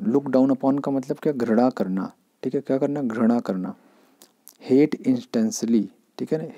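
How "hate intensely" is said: very slow, word by word; slow teacher dictation. Shown as a demonstration. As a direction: spell the meaning out slowly. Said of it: "teacher dictates meaning slowly".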